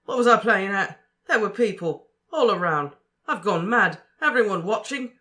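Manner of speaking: frantic. A narrator's reading. Ron telling Harry about asking Fleur, frantic and loud. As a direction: pour it out in rising panic.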